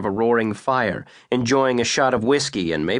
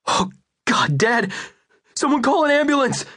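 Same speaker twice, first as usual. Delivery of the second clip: much higher, frantic cry for help; panicked shout. Acted. Son finds his shot father and yells for help in panic. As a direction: scream for an ambulance in terror.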